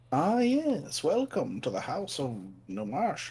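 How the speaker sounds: put-on swooping, animated old-man voice, slipping in. Voicing a character practicing in front of a mirror, in a Deckard Cain voice. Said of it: "I turned into Deckard Cain again".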